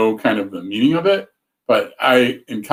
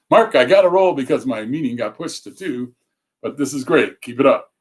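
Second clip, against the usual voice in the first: upbeat radio DJ read, a bit higher; 3 semitones higher than usual. Retold or imitated. Reading out a viewer comment in a DJ voice. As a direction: announce it like a radio DJ. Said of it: "This is me with my D J voice".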